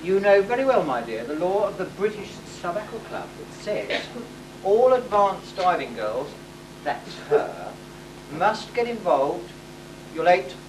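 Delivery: hammy sultan laying down the law; pompous decree. Acted. Panto sultan announcing the marriage law to his daughter. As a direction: proclaim it like a self-satisfied panto sultan.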